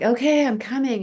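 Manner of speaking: high-pitched, hasty reply, retold; hurried answer. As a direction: act out calling back that you're on your way. Answering the urgent dream call.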